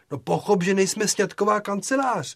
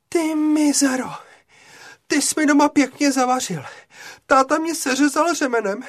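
loud, raised, furious scolding; furious girl; 6 semitones higher, 6 dB louder than usual. Acted. Girl scolding Bičiště for getting her punished, furious. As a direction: tear into him, all fury.

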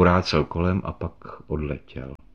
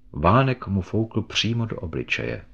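usual speaking voice

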